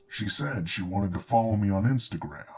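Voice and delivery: ordinary delivery, nothing marked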